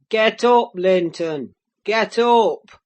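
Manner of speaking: loud barked command; shouting. Acted. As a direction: shout him to his feet. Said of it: "he shouted".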